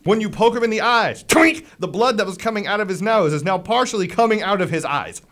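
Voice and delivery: lively, punchy combat storytelling; animated game master describing a hit; game master's action narration. Acted. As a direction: relish the gruesome blow as you narrate.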